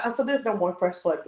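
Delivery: flat, offhand; mimicking Sean. Sean on the phone ending the group, offhand mimicry. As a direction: toss it off like it's nothing. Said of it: "this is how he said it".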